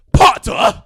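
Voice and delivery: high, loud sneering shout; hateful shout. Retold or imitated. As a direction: spit his name. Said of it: "to be like".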